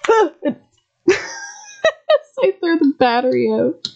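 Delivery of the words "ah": short mock scream of fright; imitated scared yelp. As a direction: re-enact a startled "ah". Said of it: "being scared and going".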